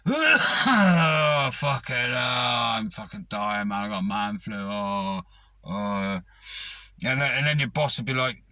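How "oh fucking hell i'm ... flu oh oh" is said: hammed-up man flu. Hamming man flu to boss.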